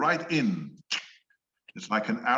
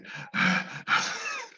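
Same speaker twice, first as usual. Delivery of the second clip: long airy sigh; breathy sigh. Shown as a demonstration. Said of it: "that's a breathy voice".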